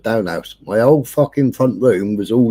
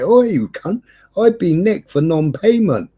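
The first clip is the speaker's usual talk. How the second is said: higher, urgent telling of the news; agitated phone call; 7 semitones higher than usual. Retold or imitated. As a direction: tell your mate in a rush. Phoning his mate from court.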